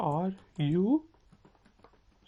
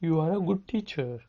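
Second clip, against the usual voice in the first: very slow, each word spelled out for learners; slow it right down so students can copy; slow model sentence; much slower than usual. Shown as a demonstration. Teacher slowly modelling a question for students to repeat. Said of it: "मेरे साथ repeat करें".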